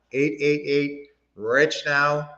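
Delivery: slow, each digit set apart so it can be written down; slow, careful repeat of the phone number; slow dictation. Shown as a demonstration. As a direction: read the number out slowly for the chat.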